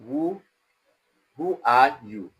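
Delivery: halting WHO, then weight on ARE; emphatic stress. Shown as a demonstration. Lecturer showing how to emphasize a word, stress on ARE. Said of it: "trying to emphasize a word".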